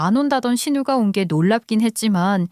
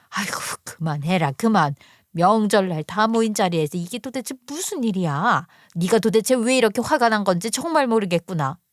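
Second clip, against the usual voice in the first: lightly voiced weary mother; exasperated mother. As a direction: try to hush your daughter, restrained.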